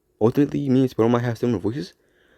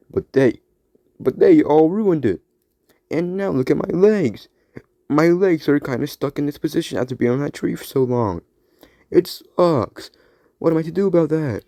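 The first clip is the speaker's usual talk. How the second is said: slightly higher, whiny complaining; Spider-Man 2099; 5 semitones higher than usual. Acted. Spider-Man 2099 complaining about his stuck legs, lightly higher. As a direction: sulk about the ruined cheese stick. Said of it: "Spider-Man twenty ninety-nine".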